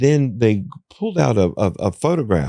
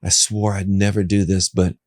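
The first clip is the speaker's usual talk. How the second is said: resigned sigh. Retold or imitated. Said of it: "That's exactly how I said it".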